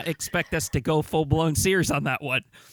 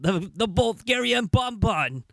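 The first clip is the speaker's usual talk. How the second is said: slow, higher mock Bulgarian accent; stuck in Bulgarian accent; 6 semitones higher than usual. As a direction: drag out Bulgarian bonbon in a hammed-up Bulgarian accent. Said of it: "I don't know why I'm still stuck in this accent".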